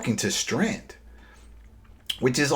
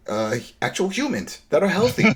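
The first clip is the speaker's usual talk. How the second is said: laughing through the words, pitch jumping up; amused disbelief with a laugh; 8 semitones higher than usual. Real, not acted. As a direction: break into a laugh mid-phrase. Mocking walkers, laughing.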